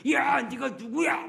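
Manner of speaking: hammed-up drunken shout; mock drunken yell. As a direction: bellow it like a drunk picking a fight. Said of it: "고래고래 소리 지르면서".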